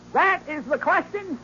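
slow, lofty declaiming of "That is the question"; hammy orator. Acted. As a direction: stretch out "question" like a stage tragedian. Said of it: "orating like Demosthenes".

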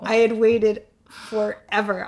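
real catch in the voice; choked up. Real, not acted. Woman recalling her first pregnancy news, choked up. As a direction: overcome while remembering, breath catching. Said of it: "I can't believe I'm getting so choked up".

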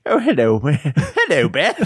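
badly faked Cockney, close to laughing; half-hearted mock Cockney with giggles. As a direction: attempt a Cockney greeting and fail. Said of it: "I can't do my Cockney".

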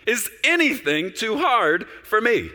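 high, ringing declaration from God; booming voice of God. Acted. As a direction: proclaim it as the Lord, slowly and grandly. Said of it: "I love it when he talks like this".

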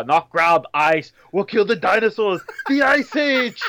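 exaggerated movie-villain one-liners, climbing at the end; put-on film character. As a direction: deliver corny ice puns in character. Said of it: "she's like, uh".

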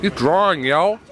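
understated mock Philly accent; Philly accent attempt. Shown as a demonstration. Practising slang for the couple, attempted Philly accent. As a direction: imitate Philly speech on the slang. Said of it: "I should do some of your Philly accent".

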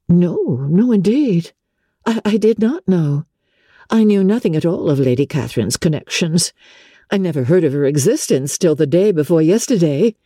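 a touch of surprised protest, lightly voiced; she's caught off guard, so let the surprise show just a little; surprised young lady. Elizabeth answers, startled by the news.

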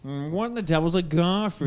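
lightly voiced posh Tim Curry; a hint of a sly, theatrical cat villain; Tim Curry impression. Imitating Tim Curry's Garfield villain for friends. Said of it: "with Tim Curry?".

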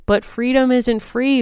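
high, slow, emphatic declaration; shouted. A narrator's reading. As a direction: proclaim it like a grand motto. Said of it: "Felicity shouted".

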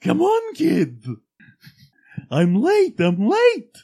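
high, loud frantic rush; Mad Hatter. Retold or imitated. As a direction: panic like you're running late. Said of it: "the freaking Mad Hatter".

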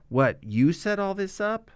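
high, slow mock disbelief; a lightly voiced stunned question; incredulous. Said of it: "and then she's like".

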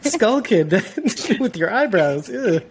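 high, teasing disgusted ew; playful disgust. Real, not acted. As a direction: tease him with mock disgust.

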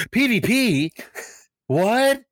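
high-pitched, incredulous mock reaction; amazed disbelief. Imitating an artist learning who sits beside him, amazed disbelief. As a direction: imitate someone astonished, voice leaping up.

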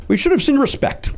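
imitating son's voice. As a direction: lightly voice a young son. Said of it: "my son said".

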